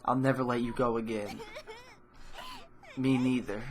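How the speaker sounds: relieved laugh with tears; happy sobbing reunion; laughing through tears. Acted. Tearful reunion hug.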